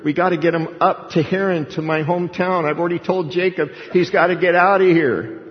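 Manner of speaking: acting out a wife pressing for action; urgent wife. Voicing Rebekah urging her husband.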